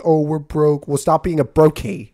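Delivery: a light mock impression of an online tough guy; Andrew Tate accent. Mocking the transit authority's complaint in a light mock tough-guy voice. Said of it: "That's my Andrew Tate accent".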